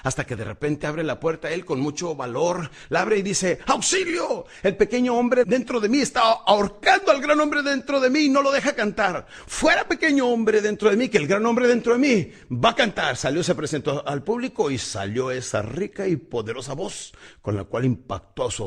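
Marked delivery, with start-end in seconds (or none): 3.7-13.2 high, loud desperate cry for help; desperate shout. Retold or imitated. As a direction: shout it out to break the fear. Caruso grita para vencer el miedo. (grito desesperado, agudo y fuerte)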